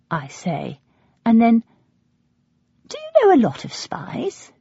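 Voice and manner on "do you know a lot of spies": high, hushed question with an edge; a sharp whisper at her secretive father; edgy whisper. A narrator's reading. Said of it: "There's an edge I've not heard".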